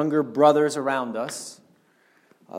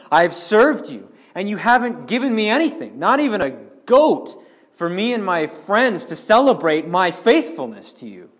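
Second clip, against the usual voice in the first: higher, louder, aggrieved protest; resentful complaint; 5 semitones higher, 4 dB louder than usual. Acted. Dutiful son protesting to his father, aggrieved. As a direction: sound wronged and self-righteous. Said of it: "this legalistic mindset of this son".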